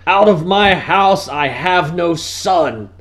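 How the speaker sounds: mock disowning; dramatic banishment; disowning father. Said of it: "I'll be like".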